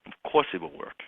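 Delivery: ordinary talk, nothing marked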